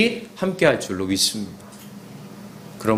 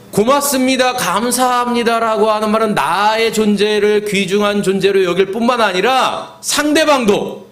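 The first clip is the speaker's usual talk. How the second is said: impassioned preaching; 7 semitones higher than usual. Acted. Preaches with raised voice.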